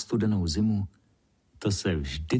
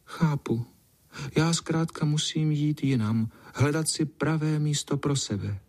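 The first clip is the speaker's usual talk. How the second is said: higher, wistful cat voice; sadly accepting she must leave; resigned sigh; 7 semitones higher than usual. Acted. Cat sighs to the boy that she must go, higher and wistful. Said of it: "A ona vzdychla".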